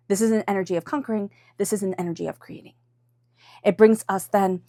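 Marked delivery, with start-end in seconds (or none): 0.1-1.3 quick, driving and forceful; punchy, hurried read; brisk conquering. Shown as a demonstration. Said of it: "not conquering". 1.6-2.7 soft, gentle read; gentle creating. Shown as a demonstration. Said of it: "It's an energy of creating".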